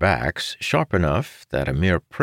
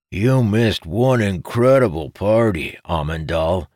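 higher-pitched, needling character voice; snickering tease; 5 semitones higher, 3 dB louder than usual. A narrator's reading. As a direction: rib a friend with raised pitch. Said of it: "then snickered".

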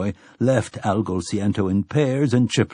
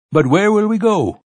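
high, loud anxious squawk; rooster creature voice; 10 semitones higher, 6 dB louder than usual. Acted. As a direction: pitch it up like a worried rooster. Frightened rooster-headed creature asks.

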